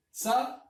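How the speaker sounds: Sauco said slowly, syllable by syllable; split into syllables. Shown as a demonstration. Teacher answers how Sauco is separated. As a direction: break Sauco apart to show the hiato. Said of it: "¿Cómo se separa?".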